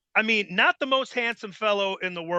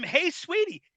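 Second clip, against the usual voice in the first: smooth; 9 semitones higher than usual. Retold or imitated. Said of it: "the women would just melt from".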